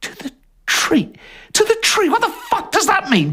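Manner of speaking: high, rasping disbelief. Acted. Jerry reacting to the chief's sentence, high rasp. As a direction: rasp it out in shock. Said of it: "Jerry rasps".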